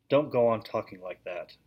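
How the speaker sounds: a touch of tired, grumpy snapping; understated irritable retort; mild bad-tempered. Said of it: "which always made him bad-tempered".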